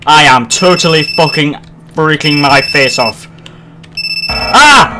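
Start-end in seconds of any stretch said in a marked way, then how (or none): 4.3-4.9 short high scream; frightened scream. Real, not acted. Gamer screaming at a sudden horror scare. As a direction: yelp in real fright.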